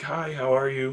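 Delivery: small, soft, quiet, unassuming voice. Recalling how a good friend came up and greeted the speaker, imitating quiet talking. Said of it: "talking all quietly".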